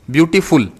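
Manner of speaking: ब्यूटीफुल in two parts, ब्यूटी then फुल; split syllables. Shown as a demonstration. Teacher showing students word parts, ब्यूटीफुल split before फुल. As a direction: say ब्यूटीफुल with फुल set apart. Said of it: "फुल अलग से बोलना पड़ता है".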